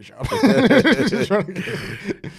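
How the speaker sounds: high, slow words squeezed out through laughter; cracking up mid-sentence; breaking into laughter; laughing. Real, not acted. Laughing at his own joke.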